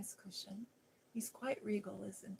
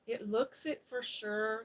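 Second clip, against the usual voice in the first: Yorkshire brogue; 2 semitones higher, 6 dB louder than usual. Acted. Martha to Mary, in a broad Yorkshire brogue. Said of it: "She's speaking in that old Yorkshire brogue".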